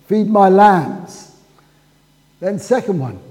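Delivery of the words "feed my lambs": louder, slow "Feed my lambs" with weight on "my"; emphatic correction. Shown as a demonstration. Preacher correcting his quote of Jesus, emphatic. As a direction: put "my" forward and say it firmly.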